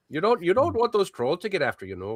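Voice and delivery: hammed-up Minnesota accent; bad Minnesota accent. Warning about trolls, bad Minnesota accent. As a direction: badly fake a Minnesotan. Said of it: "Our accents are really pretty hideous".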